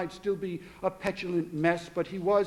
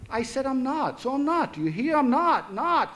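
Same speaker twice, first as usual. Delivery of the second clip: angry insisting; 6 semitones higher than usual. Acted. Father denying anger to daughters, heated. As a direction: insist it, getting hotter.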